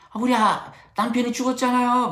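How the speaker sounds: high, loud tearful wail, retold; mock wail of a grieving wife; imitating crying wife. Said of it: "그 부인께서 막 우시는 거예요".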